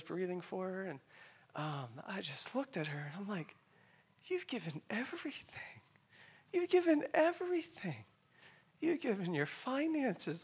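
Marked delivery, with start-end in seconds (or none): 4.2-10.4 high, choked-up plea; real tearful voice. Real, not acted. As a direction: plead through tears, voice pitched high. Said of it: "forgive me if I tear up".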